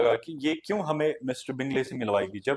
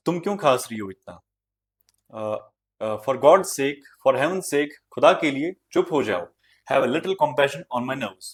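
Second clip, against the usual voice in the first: mildly exasperated mother's scolding; 3 semitones higher, 4 dB louder than usual. Acted. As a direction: scold with a touch of pleading. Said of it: "डांटा, कहा कि". (हल्की झुंझलाहट भरी डांट)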